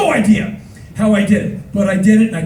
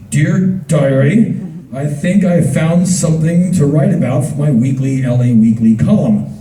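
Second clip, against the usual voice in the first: dear diary; 5 semitones lower, 5 dB louder than usual. Pretend. Writer reading his diary entry aloud, low. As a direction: intone it like a pompous diarist. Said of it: "writing in notebook".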